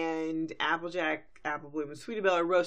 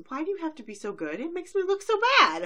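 higher, rising to a loud whine; whiny diva; 11 semitones higher, 4 dB louder than usual. Acted. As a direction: whine with jealous drama. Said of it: "Rarity just looks at Applejack and goes".

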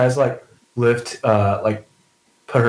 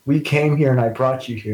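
higher-pitched, mildly tearful apology; lightly acted grief, voice raised; acted sobbing; 4 semitones higher than usual. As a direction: plead guiltily as if through tears, understated.

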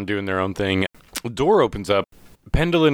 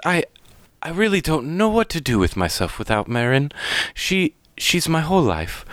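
higher, halting, upset mother; acted anguish in a raised voice; distraught mother; 8 semitones higher than usual. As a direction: falter as a mother at a loss. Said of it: "she seems very distraught".

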